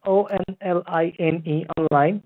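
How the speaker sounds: slow letter-by-letter spelling; dictating slowly. Real, not acted. Agent spelling out web address.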